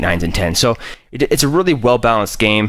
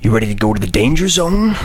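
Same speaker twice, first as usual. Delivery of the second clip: cool fighter pilot. Pretend. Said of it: "Do some Top Gun in the air?".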